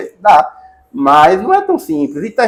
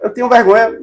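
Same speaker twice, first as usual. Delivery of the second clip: higher, mock timid "eu tenho vergonha"; teacher imitating a shy presenter, higher; shy student; 6 semitones higher than usual. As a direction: play a bashful student hiding away.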